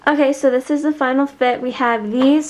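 talking with retainers in; words slurred round retainers; wearing a retainer. Real, not acted. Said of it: "Sorry, I put my retainers in".

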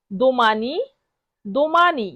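দোমানি as do-MAA-nee, rising, then falling; model pronunciation. Shown as a demonstration. Teacher drills tomorrow's word দোমানি, careful model pronunciation. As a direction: sound out "দোমানি" with a long stressed middle, pausing between repeats. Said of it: "বারবার শব্দটি উচ্চারণ করব".

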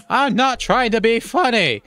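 high, loud and slow, fed up; exasperated protest. Acted. Son protesting to laughing parents, high and exasperated. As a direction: insist you're serious, pushing back hard.

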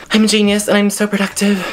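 breathless and a bit loud; puffing between words; out of breath. Real, not acted. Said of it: "Why am I out of breath from".

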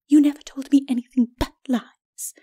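breathless whispered reproach; whispered retort. A narrator's reading. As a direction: hiss the accusation under the breath. Lady retorts.

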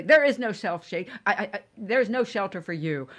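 quoting herself in a put-on Arabic accent; a refugee pleading in a lightly Arabic-accented voice. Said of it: "in my Arabic voice".

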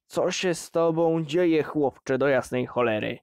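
loud angry outburst; father roaring at his defiant son; furious father. Acted. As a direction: shout it at the boy.

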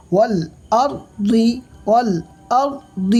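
والأرض with a rounded, heavy r, lips rounded. Shown as a demonstration. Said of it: "মুখটা গোল করে পড়তে হবে".

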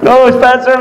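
high-pitched imitation of her protest; emphatic reassurance. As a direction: protest brightly as the woman. Acts her emphatic reassurance, amid laughter.

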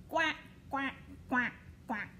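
quacking like a duck; a playful duck voice. Pretend. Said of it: "what does the duck say".

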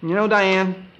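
fed-up outburst. Acted. Husband finally threatening his wife with divorce, loud and fed up.

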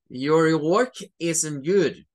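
blunt teacher. Shown as a demonstration. Teacher to student rejecting the work, blunt. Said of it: "para los teachers".

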